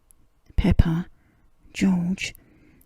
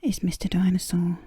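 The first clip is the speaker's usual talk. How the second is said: whispered storytelling. A narrator's reading. Reader whispering a bedtime story to a sleepy listener, hushed. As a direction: breathe the words like a secret.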